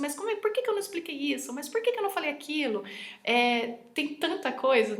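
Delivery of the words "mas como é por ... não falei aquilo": fast, higher, worried self-reproach; fretful self-quote. Retold or imitated. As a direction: rush it like scolding yourself. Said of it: "Como é que eu falo assim". (autocrítica rápida e aflita)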